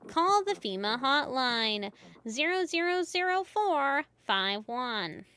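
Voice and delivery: light newscaster read; steady broadcast news delivery; news reporter voice. Acted. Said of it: "I should have done the news reporter voice".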